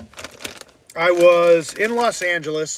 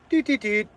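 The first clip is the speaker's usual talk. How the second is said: higher doot-doot imitation of button presses; little high keypad tones; imitated keypad beeps; 6 semitones higher than usual.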